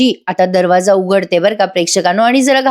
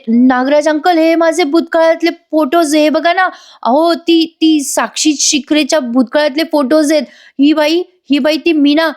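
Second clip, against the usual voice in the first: high, rushed, flustered pleading; flustered panic; 6 semitones higher than usual. Acted. Sakshi panics to Nagraj over the old photos, high and flustered. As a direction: blurt it out in a frightened fluster. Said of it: "ती खूप अशी हडबडून बोलते".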